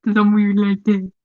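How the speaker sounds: a hint of a silly put-on voice; weird voice. Shown as a demonstration. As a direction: lightly replay your weird voice. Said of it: "like my weird voice".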